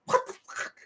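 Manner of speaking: breathy whispered disbelief; mock disbelief, whispered; whispered curse. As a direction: hiss it under your breath. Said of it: "I'm like".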